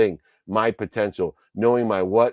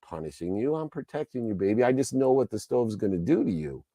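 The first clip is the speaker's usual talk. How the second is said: tender mom; 5 dB quieter than usual. Retold or imitated. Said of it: "your mom hugs you and says".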